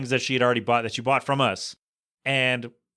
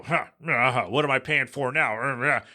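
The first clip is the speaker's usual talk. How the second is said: a hint of a grumbling, sulky husband, slow; lightly mock a pouting husband muttering slowly; sulking husband; 2 semitones lower than usual. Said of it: "just sit there with their arms folded".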